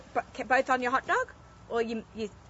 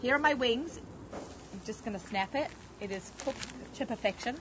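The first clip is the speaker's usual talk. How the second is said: usual speaking voice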